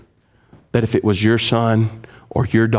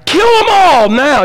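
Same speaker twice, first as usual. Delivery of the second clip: mock bloodthirsty demand; 6 dB louder, slower than usual. Mocking vengeful prayer.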